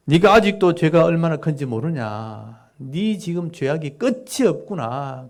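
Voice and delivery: a touch of heated accusation, slowing at the end; pouring out anger. Shown as a demonstration. Eliphaz pouring accusations on Job, mild heat. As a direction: pour it out on Job. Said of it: "막 이렇게 쏟아붓는 그런 장면".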